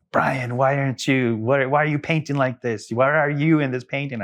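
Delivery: light imitation of a questioning teacher; quoting the teacher. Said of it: "he would always give me this, like".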